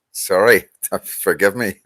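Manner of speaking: sorry said through a real laugh; laughing apology. Real, not acted. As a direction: laugh while you excuse yourself. Apologising while laughing at himself.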